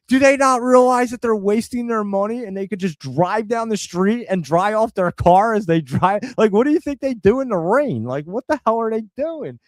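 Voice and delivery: incredulous retold rant; retold yelling out. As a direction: imitate yourself griping out the window. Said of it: "yelling out the window to this dude".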